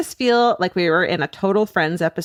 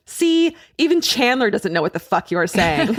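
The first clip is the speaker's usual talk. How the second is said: laughing; 3 semitones higher than usual. Retold or imitated. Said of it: "my roommate quipped".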